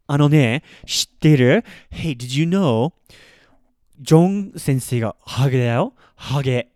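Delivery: loud eager gossip, leaning in; a lightly voiced friend spilling gossip. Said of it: "So if your friend's like".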